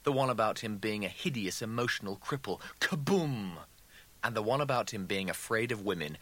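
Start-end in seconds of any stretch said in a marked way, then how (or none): 2.8-3.6 higher-pitched comic kaboom; mock explosion boom. A narrator's reading. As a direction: punch it like an explosion. Exclaimed imitation of an explosion.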